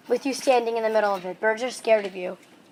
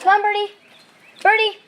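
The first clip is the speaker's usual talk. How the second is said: coaxing a wild bird; 10 semitones higher, 5 dB louder than usual. Real, not acted.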